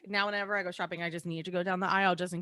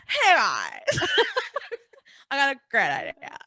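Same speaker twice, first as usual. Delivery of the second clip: excited pitch; 6 semitones higher, 5 dB louder than usual. Retold or imitated. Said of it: "they're like".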